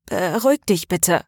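ordinary delivery

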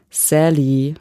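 patient machine calling her name; measured, mechanical address; mechanical patience. Acted. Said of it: "sagte ich mit mechanischer Geduld".

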